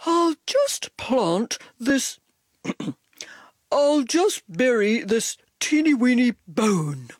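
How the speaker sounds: sly, offhand dog; too-casual cover-up; fake casual. A narrator's reading. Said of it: "as casually as possible".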